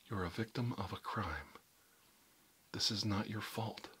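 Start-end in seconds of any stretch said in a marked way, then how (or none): 2.7-3.9 reassuring. Acted. Reassuring victim, repeated.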